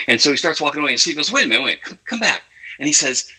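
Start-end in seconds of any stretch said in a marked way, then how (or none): 1.3-2.4 retold calling back. Storyteller as boss stopping a man walking away, mock summons. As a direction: pitch jumps up on the call back.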